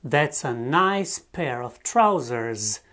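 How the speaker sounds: slow, careful English model sentence. Shown as a demonstration. Teacher modelling an English phrase slowly for students. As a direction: say it slowly for the class. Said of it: "De exemplu".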